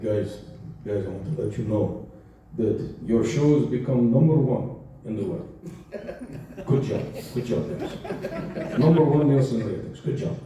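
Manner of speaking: put-on lightly done deep Israeli accent; a hint of a deep Israeli producer accent. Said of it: "he had this really deep Israeli accent".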